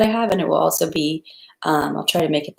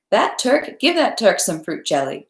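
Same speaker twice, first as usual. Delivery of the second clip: hostess ordering; 4 semitones higher than usual. Acted. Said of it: "she said to the butler".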